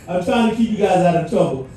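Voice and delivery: quick laughing aside. Real, not acted. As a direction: rattle it off through a laugh. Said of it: "laughing aside".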